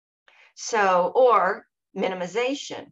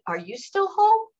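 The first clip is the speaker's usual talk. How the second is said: high-pitched turned-back question; retorted question; 12 semitones higher, 4 dB louder than usual. Retold or imitated. She turns on the teasing dancer, high challenging retort. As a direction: throw his question back, pitch leaping up. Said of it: "I turned around and I said".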